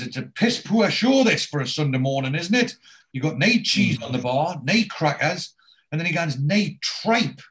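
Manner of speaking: hammed-up grumble, pitch jumping up; mock outraged complaint. Oz moaning to Arthur about the bare bar, mock outrage.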